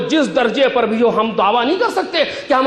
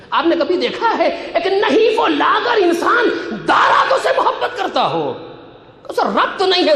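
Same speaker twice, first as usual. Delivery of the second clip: emphatic, rhetorical sermon voice; impassioned preaching; 6 semitones higher than usual. Acted. Preacher asking the congregation about the beloved's beloved, impassioned. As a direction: press the question on the listeners.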